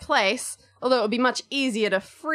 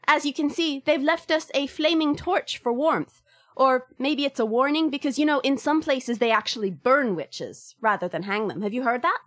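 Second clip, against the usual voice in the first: put-on Irish accent. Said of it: "Mary gives you a verbal tour".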